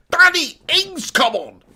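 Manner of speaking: high, slow incredulous wail of the name; exasperated. Real, not acted. Groans the name in disbelief.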